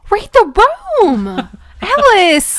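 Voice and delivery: loud, high laughing scold. Real, not acted. Listener laughing as she scolds Alice. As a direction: scold her through a laugh.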